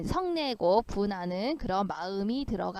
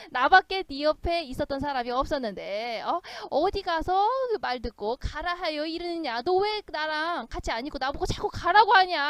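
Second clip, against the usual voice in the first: mock aggrieved protest, rising higher; 4 semitones higher than usual. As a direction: whine indignantly like a spurned companion. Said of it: "울면서 가난 귀신이 이렇게 말했다". (서럽고 분한 척 따지듯)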